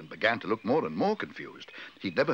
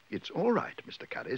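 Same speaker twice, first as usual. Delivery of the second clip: lightly voiced little bear, pitched up then dropping; Paddington, reassuring; 7 semitones higher, 3 dB quieter than usual. A narrator's reading. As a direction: reassure politely, starting high.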